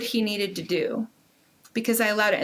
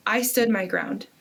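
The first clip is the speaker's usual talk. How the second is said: normal talking voice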